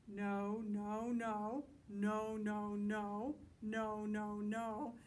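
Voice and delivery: loud, chanted string of no's; punchy, repetitive monster refusal; monsters' stubborn refusals. Acted. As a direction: hammer out each no at one pitch. Reader voices monsters' favorite words.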